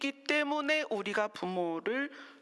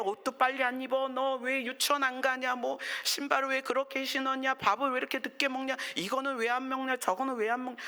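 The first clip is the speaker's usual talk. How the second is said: lightly voiced nagging parent on one raised note; mock fussing parent; 3 semitones higher than usual. Imitating today's parents nagging their children, mock fussing. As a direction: rattle off complaints like a fussing parent. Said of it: "요즘 부모는 어떠냐면, 난리 난리예요".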